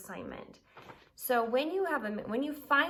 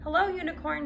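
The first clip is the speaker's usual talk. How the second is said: Mermaid's greeting; 8 semitones higher, 6 dB louder than usual. A narrator's reading. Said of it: "she said".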